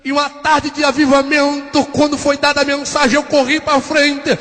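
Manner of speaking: testimony gathering force toward a climax; pregação de avivamento. Real, not acted. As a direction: preach it with rising energy, voice lifted. Prega o avivamento com força. (pregação animada, ganhando força)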